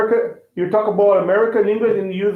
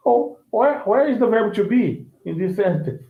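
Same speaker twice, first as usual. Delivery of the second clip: mock puzzled question; 3 semitones higher than usual. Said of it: "You would say".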